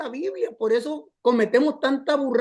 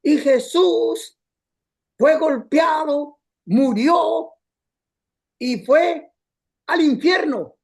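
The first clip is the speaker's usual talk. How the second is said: mock pulpit preacher, drawn out and raised; imitating the cassette preacher; 2 semitones higher, 4 dB louder, much slower than usual. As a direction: ham up a preacher building drama. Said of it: "cuando él decía".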